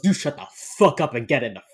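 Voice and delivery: imitating Morgan ordering a killer into the car; mock tough-guy order. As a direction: shove him into the car with your voice. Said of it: "Derek Morgan grabs him and goes".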